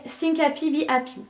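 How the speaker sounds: put-on reading it out in a light English accent; a touch of English accent on the English words. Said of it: "avec l'accent anglais qui va avec".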